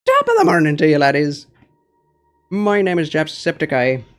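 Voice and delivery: loud, high-pitched Irish yell; Jacksepticeye impression. Second try at the Jacksepticeye greeting for chat, loud and high. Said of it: "Do a Jacksepticeye".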